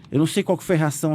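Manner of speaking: ordinary talk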